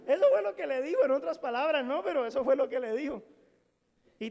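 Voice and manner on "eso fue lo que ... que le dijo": fuerte y alto, remarcando fue; enfático. Real, not acted. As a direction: insiste con fuerza. Remata con énfasis. (el predicador insiste a la congregación, fuerte)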